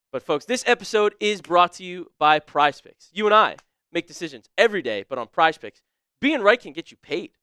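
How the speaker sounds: upbeat sponsor read; a streamer reading his sponsor spot to the chat. Acted. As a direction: sell the app like a host read. Sponsor read for Prize Picks.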